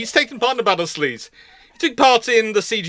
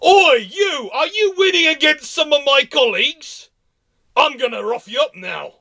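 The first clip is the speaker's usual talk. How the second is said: hammed-up challenge from a brawling lord; rowdy noble's challenge; 8 semitones higher than usual. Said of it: "racing around going".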